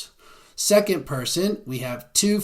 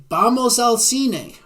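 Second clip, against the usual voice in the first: cheery suggestion; 8 semitones higher, 4 dB louder than usual. Acted. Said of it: "I would say".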